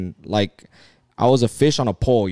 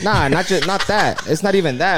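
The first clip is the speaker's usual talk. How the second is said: higher, laughing through the words; brushing off the teasing while laughing; laughing denial; 5 semitones higher than usual. Real, not acted. Man laughs off friends' bait jokes.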